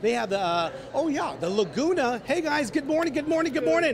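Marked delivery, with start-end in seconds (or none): 2.2-3.9 upbeat greeting. Real, not acted. Live TV morning greeting.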